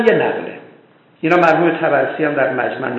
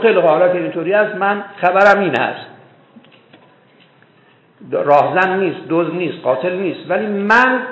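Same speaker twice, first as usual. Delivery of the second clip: proclaiming; 6 semitones higher, 5 dB louder than usual. A narrator's reading. Prophet proclaims to gathered tribe.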